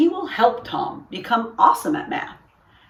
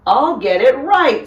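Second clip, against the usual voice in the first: confident; 6 semitones higher, 8 dB louder than usual. A narrator's reading. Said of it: "says Tom".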